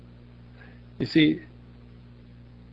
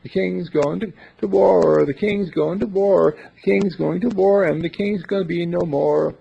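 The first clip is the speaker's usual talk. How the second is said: jester; 4 semitones higher, 5 dB louder than usual. Retold or imitated. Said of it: "The jester would say".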